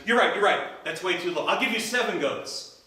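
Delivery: eager. Acted. Johnny raises his offer.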